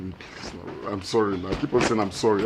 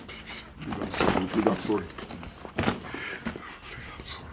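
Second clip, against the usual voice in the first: softer and lower begging, down to near-whispers; fading plea; 4 semitones lower, 5 dB quieter than usual. Acted. Husband begging his wife, fading into whispered apologies. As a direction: plead until the voice almost disappears.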